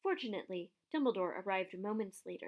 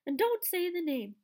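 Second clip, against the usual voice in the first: high, louder tearful plea; sobbing; 9 semitones higher, 6 dB louder than usual. A narrator's reading. Hagrid begging Harry not to name Voldemort, sobbing. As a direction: beg through sobs. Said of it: "sobbed Hagrid".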